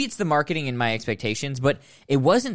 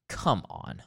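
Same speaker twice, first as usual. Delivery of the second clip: ordinary talk, nothing marked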